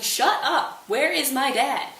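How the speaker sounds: high loud shut up; angry shout. Retold or imitated. Laertes to the king, loud angry shout. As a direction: yell him down in fury.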